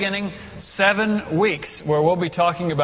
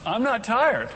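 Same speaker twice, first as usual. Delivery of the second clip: higher, mock indignant newcomer; protesting Adam; 5 semitones higher than usual. Lightly voiced Adam protesting to God he is not tired. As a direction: whine a little, you just arrived. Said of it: "He says".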